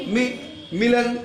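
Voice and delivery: मिलन said slowly with a short मि; syllable by syllable मिलन; careful pronunciation. Shown as a demonstration. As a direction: break मिलन into मि then मिलन, slowly. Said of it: "मिलन, महर्षिकार".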